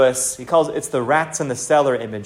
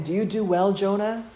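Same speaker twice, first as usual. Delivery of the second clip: tender questioning; 4 semitones higher than usual. Acted. God gently questioning Jonah about his anger, tenderly. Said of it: "the tenderness of God coming again".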